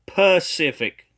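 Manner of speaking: "Pacific" as puh-SIF-ic, first syllable set apart; correct pronunciation. Shown as a demonstration. Critic corrects the prophet, "Pacific" begun with a clear puh. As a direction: start "Pacific" cleanly on p, no s. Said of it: "which is".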